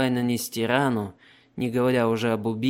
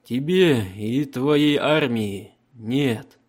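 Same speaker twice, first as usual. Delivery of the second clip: slow, loud, commanding Emperor; 2 semitones higher, 5 dB louder, much slower than usual. Acted. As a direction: speak as an unshakable emperor. Emperor voiced in audiobook.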